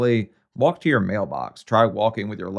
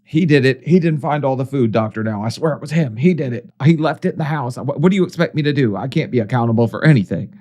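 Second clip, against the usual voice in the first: whiny excuses; 4 semitones higher, 3 dB louder than usual. Retold or imitated. Voices patient making whiny excuses.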